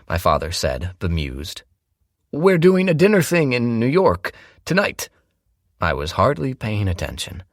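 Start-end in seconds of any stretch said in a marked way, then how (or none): 2.3-5.1 father's voice. A narrator's reading.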